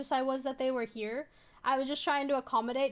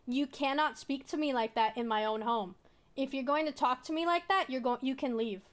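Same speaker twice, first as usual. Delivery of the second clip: calm, firm. Retold or imitated. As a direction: state it evenly, without raising your voice. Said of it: "I actually was really calm".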